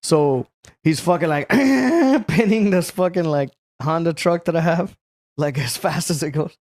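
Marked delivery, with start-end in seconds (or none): 1.5-2.2 high, held revving noise; long high-pitched engine drone; imitated engine whine. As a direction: mimic a truck floored with your voice. Imitating truck driven flat out.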